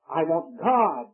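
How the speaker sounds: slow, sincere and simple. Retold or imitated. The Savior choosing God, slow and sincere. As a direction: state it slowly and sincerely. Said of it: "he said".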